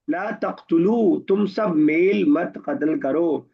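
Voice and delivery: slow, measured drill of verb forms; slow paradigm recitation. Shown as a demonstration. Teacher drills Arabic prohibition forms with translations for students, slow recitation. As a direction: recite each form slowly and deliberately.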